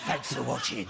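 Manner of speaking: lightly voiced creepy sign-off; mock seedy presenter; sex pest. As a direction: imitate your own creepy-sounding farewell. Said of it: "I sounded like a sex pest".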